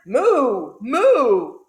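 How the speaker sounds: loud, full cartoon moo; cow mooing. A narrator's reading. Cow confused by the sneeze, loud moo. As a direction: belt out two big cow moos. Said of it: "who muttered".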